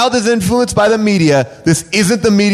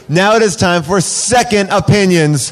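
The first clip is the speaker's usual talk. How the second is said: announcer voice. Acted. Announcing segment title.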